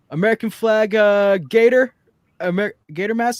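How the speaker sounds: can't believe it's the same guy; incredulous question. Retold or imitated. Coworker asks about the man.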